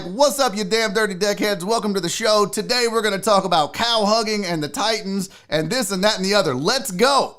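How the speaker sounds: hyped host opener; show host intro. Shown as a demonstration. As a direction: open the show with energy. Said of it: "I'm like".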